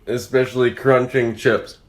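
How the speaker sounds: usual speaking voice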